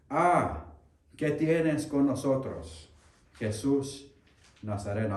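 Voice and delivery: loud, high, drawn-out cry from a possessed man; demon's shout. Acted. Preacher voicing the possessed man shouting at Jesus, loud cry. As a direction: cry out as the unclean spirit confronting Jesus. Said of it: "Si este joven está gritando esas palabras".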